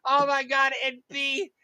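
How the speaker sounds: high-pitched, breaking into real laughter; can't get the words out for laughing; laughing helplessly. Real, not acted. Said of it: "I can't stop laughing".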